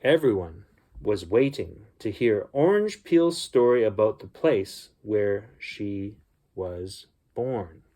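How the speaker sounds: gentle storybook reading voice; story narration. A narrator's reading. Uncle reading a bedtime story to children, storybook voice. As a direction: read it like a bedtime story for kids.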